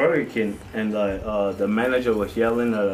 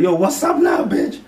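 loud mock taunt; 8 semitones higher, 5 dB louder than usual. Retold taunt at old boss.

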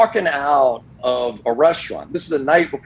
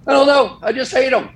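cheeky deadpan jab; 12 semitones higher than usual. Retold or imitated. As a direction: toss it off like a proud troublemaker. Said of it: "and I said".

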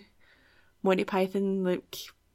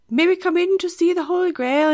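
loud, higher-pitched mock knight; hammed-up film knight hailing a castle; calling up to the tower; 10 semitones higher, 7 dB louder than usual. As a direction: call up to someone high above. Acting out Monty Python knights.

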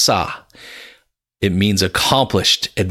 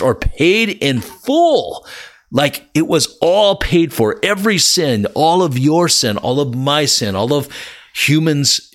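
higher, rising with joy; exultant; 5 semitones higher than usual. Real, not acted. Preacher proclaiming sin paid in full, exultant and high. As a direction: lift it up in triumph.

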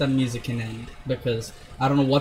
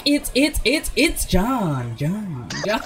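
sound drop effect; 4 semitones higher, slower than usual. Pretend. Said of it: "it goes like".

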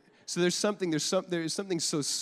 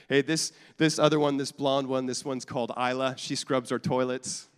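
mock proud introduction; 6 dB louder than usual. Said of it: "introducing to you my family".

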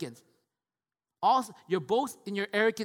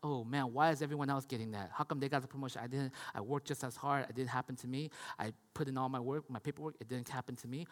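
worried whine; 6 semitones lower, 7 dB quieter than usual. Retold or imitated. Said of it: "constantly worrying about like".

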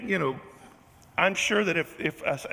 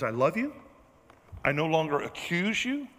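loving voice of God; 2 semitones lower than usual. Acted. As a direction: reassure tenderly, as God to a child. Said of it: "our God has a different voice".

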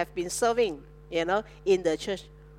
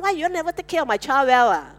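fast, raised complaining parent voice; mock upset parent; 3 semitones higher, 3 dB louder, faster than usual. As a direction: rattle it off like an annoyed parent. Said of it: "don't get upset when your children got a little bump".

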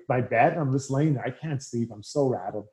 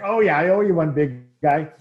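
loud, excited thanks upward; thanking God; 5 dB louder than usual. Retold or imitated. Player thanks God for the lineup, loud and excited. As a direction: cheer to the sky like you got your wish. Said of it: "I'm like".

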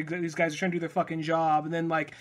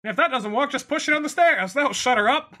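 mock villain; 7 semitones higher, 3 dB louder than usual. Joking in villain's voice.

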